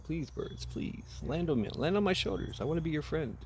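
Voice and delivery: hammed-up high plea for friendship; mock pleading. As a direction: plead softly with the birds. Samurai begging birds to land.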